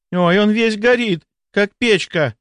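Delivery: high-pitched, drawn-out alarm. Acted. Nurse pulls hand from hot forehead, alarmed. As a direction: exclaim in shocked worry.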